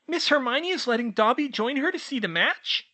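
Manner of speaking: high, loud eager elf voice; house-elf answering his summons, high and squeaky. Acted. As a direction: pipe up like an eager little elf. Dobby's excited question.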